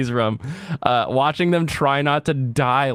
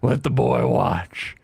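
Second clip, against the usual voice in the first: Will Ferrell bit; slower than usual. Retold or imitated. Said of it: "he's like".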